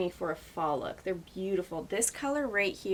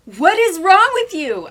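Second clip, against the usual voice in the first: much louder, higher mock scolding; mock outraged shout; 9 semitones higher, 15 dB louder than usual. Pretending to scold a friend for too many gifts, mock shout. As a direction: shout it in fake outrage at her generosity. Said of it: "I was like".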